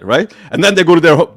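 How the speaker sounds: ordinary talk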